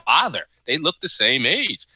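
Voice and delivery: slow, puzzled questioning; retold bewilderment, drawn out; confused disbelief. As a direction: imitate a baffled viewer working it out. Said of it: "Natalie was confused when she saw all three".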